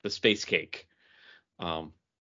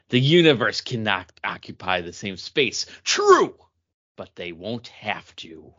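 dramatic reading. Acted. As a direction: read the comic panel like a stage villain. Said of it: "a dramatic reading".

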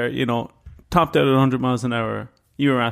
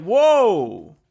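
high, startled deputy; mock alarm; 6 semitones higher, much slower than usual. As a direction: play the startled deputy, pitched up.

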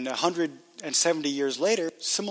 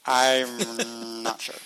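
laughing; 3 semitones lower, much slower than usual. Real, not acted. Embarrassed after a pronunciation joke.

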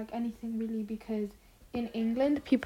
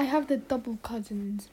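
whispering; 3 semitones lower, 6 dB quieter than usual. Real, not acted. Whispered remark.

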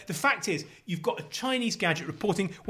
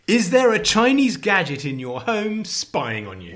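slow, louder, higher headline voice; headline read-out; 4 semitones higher, 4 dB louder, slower than usual. Retold or imitated. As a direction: declaim it like an alarmist front-page question. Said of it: "but it says".

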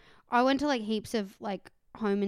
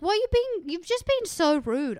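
higher, outraged retort slowing at the end; indignant; 7 semitones higher, 4 dB louder than usual. Retold or imitated. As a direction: voice climbing in disbelief at her rudeness. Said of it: "I was like".

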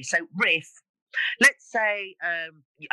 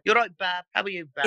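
louder Brummie greeting; Birmingham accent; 2 semitones higher, 4 dB louder than usual. Shown as a demonstration. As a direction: greet them in broad Brummie. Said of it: "In Birmingham".

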